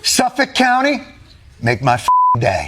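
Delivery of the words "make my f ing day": low, gruff action-hero threat; tough guy growl. Retold or imitated. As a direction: growl it like Dirty Harry. Tough-guy movie line parody.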